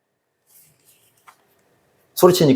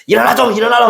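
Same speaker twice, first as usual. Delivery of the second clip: higher pitched parent's mock yell to wake up; mock yell at child; 8 semitones higher, faster than usual. Parent rousing a child who won't get up, mock yell. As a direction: call the sleepy kid out of bed, half-playful. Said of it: "막 소리 지를 거 아니겠습니까".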